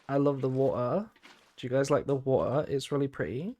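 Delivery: put-on British accent dropping the Ts in "water" and "pretty"; put-on British wo'uh and pre'y; playful broad British. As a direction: ham up the British glottal stops. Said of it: "in the most British way I could".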